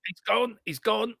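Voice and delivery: high-pitched, drawn-out repeated call; excited realisation. Real, not acted. Co-host watching a player get away, excited realisation.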